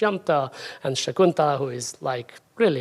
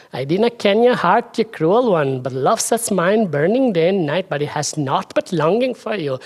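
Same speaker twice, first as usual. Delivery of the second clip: clumsy attempt at a lilting Scottish accent; badly faked Scottish, like a bad Viking; 3 semitones higher than usual. Shown as a demonstration. Lecturer trying out a love-verse translation, bad Scottish accent. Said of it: "Scottish accent is null, obviously".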